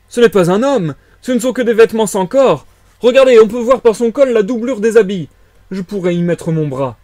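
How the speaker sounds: high, loud amazed cries, easing at the end; astonished exclamation. A narrator's reading. Villager discovering the clothes are empty, exclaiming in astonishment. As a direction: cry out the discovery to everyone. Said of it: "s'écria Huxter".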